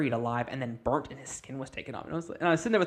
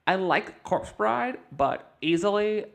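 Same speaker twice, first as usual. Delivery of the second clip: lightly voiced gushing fangirl; 2 semitones higher than usual. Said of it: "she goes".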